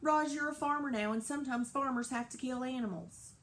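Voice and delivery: high, loud angry farmer; angry yelling. Acted. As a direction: shout it like a furious farmer. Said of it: "Mister Sharif had ever yelled".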